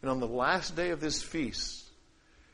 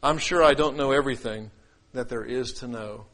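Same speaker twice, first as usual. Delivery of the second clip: humble; 4 semitones lower than usual. Shown as a demonstration. Preacher showing an open mind toward Scripture, humble and sincere. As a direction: concede it openly, letting the voice sink. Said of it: "Here's how humility sounds".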